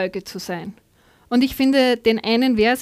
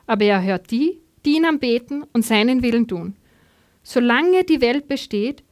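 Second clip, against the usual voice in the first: animated, clearly phrased reading aloud; Bible story narration. A narrator's reading. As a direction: read the Gospel story to a congregation.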